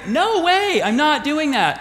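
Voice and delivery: sharp high "no way", mock indignant; a touch of a stubborn sister refusing; indignant refusal. Martha refusing her sister.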